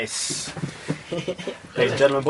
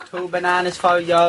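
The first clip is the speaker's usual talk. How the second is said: Dublin seller call. Retold or imitated. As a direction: cry out your fruit prices in a Dublin accent. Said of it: "do your dub accent".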